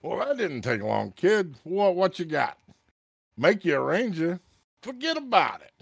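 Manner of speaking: high, loud wisecracking New York-style voice; a brash old-timer cracking wise from the fog. Acted. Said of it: "you will hear a voice in the fog".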